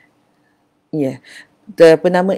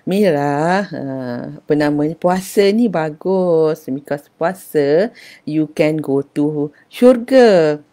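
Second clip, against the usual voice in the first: put-on older sister advising; slower than usual. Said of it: "kakak dia cubalah nak menasihat".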